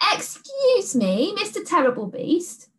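put-on a small girl being very polite to a monster; polite little girl. A narrator's reading.

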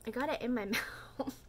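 laughing. Real, not acted. Laughing at product in mouth.

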